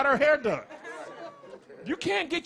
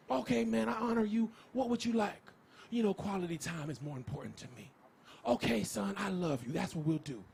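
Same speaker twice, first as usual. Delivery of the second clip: softer, mild hammed-up tender dad; mock gentle parent; 6 semitones lower, 11 dB quieter than usual. Dad honoring his son's love language, mock tender. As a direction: coo at the kid like a therapist-parent.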